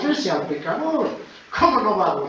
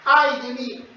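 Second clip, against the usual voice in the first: higher, louder cry of woe; exclaiming; 9 semitones higher, 8 dB louder, slower than usual. Retold or imitated. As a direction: cry it out like the prophet. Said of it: "Isaías exclama".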